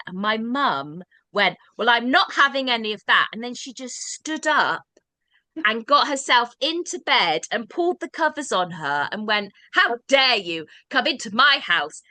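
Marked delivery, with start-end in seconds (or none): 1.8-3.3 mum's defiant refusal. Retold or imitated. Stubborn mum refuses ambulance chair. 9.7-12.0 mum's indignant scolding. Retold or imitated. Mum scolds the paramedic.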